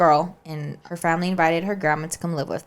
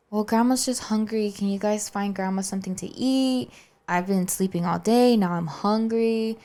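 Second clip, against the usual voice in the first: lightly voiced, wheedling old grandma; mock-pitiful plea, pitched up, last words dragged out; pleading grandma; 4 semitones higher than usual. Grandma asking the kids for food through the door, mock pleading.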